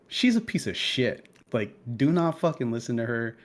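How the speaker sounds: retold angry rant, emphatic; mock tirade, leaning on the insults; pissed off. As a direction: vent about the kid with mild heat. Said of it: "I'm actively still pissed off".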